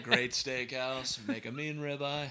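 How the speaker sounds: mock ad read. Friend joking in a mock Outback commercial voice. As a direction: sell the steakhouse like a slow TV ad.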